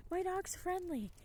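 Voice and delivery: mock the clueless owner, sing-song; lightly voiced clueless owner; dog owner. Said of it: "and they're like".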